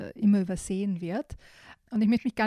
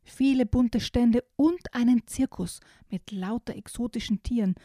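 put-on lively storybook reading for small kids; reading to children. Host reading a children's book excerpt to young listeners, storybook voice. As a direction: read it like a bedtime picture book. Reads picture book aloud.

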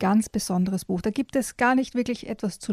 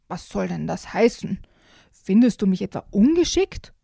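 annoyed grumble; 3 dB louder than usual. Acted. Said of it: "brummte der Bär verärgert".

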